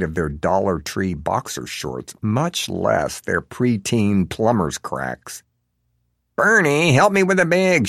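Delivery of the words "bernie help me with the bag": high, loud call across the lot; a Baltimore mom yelling to her son; mother shouting. A narrator's reading. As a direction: shout for the kid to help. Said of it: "she hears the mother shout".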